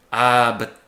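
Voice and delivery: loud, wistful Irish rover voice; wistful Irish brogue. Acted. Drunk Irishman laments his impounded ship, Irish brogue. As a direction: sigh it out in a hammed-up Irish accent. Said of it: "he sighs wistfully".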